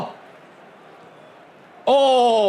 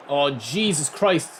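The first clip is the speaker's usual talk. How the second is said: slow exasperated groan; 2 semitones lower, slower than usual. Real, not acted. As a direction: drag it out, fed up. Exasperated at offside.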